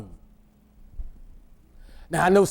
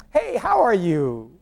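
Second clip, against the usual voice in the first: fake friendly greeting; 2 semitones higher than usual. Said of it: "as plastic as church folk".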